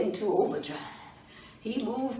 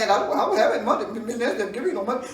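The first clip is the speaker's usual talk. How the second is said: nervous laughing denial; 6 dB louder, much faster than usual. Acted. Doofus denies, laughing fast.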